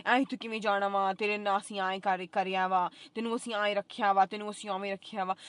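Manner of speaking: a light imitation of the landlady's nagging. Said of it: "ਮੇਰੇ ਸਿਰ 'ਤੇ ਐਂ ਖੜ ਕੇ ਨਾ ਬੋਲੀ ਜਾਇਆ ਕਰੋ".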